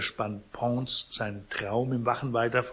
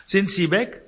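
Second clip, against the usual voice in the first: anxious question; 8 semitones higher, 6 dB louder than usual. Acted. Pons asks anxiously.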